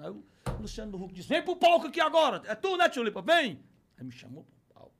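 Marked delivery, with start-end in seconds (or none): 1.3-3.6 loud, high host's summons; imitating a host calling out. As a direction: call him up to the stage. Host calls him up on stage.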